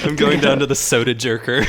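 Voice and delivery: put-on old-time city character; generic old-timey voice. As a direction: play a bygone soda-fountain regular. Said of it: "why are you doing that voice".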